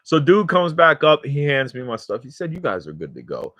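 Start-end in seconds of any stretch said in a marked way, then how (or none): 2.5-3.5 understanding cop. Retold or imitated. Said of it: "he turned into a normal person".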